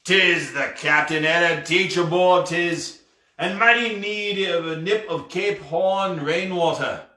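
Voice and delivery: a hint of an old sea dog asking for a drink; pirate captain.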